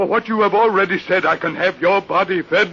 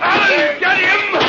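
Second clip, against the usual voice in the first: urgent order; 11 semitones higher than usual. Acted. Priest orders attack.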